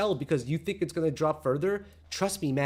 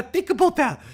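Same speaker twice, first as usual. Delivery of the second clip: laughing; 12 semitones higher, 8 dB louder than usual. Real, not acted. Laughs mid-rant.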